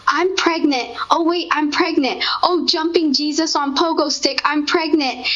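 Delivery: high, excited dawning surprise; giddy realisation. Retold or imitated. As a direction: squeal it as the news sinks in. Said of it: "And then I said".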